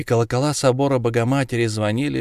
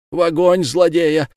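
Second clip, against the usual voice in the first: loud, higher cry for the fire; shout; 7 semitones higher, 5 dB louder than usual. A narrator's reading. Tория urging the crowd to burn the villain, loud cry. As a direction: call out for burning, raised. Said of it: "кричала Тория".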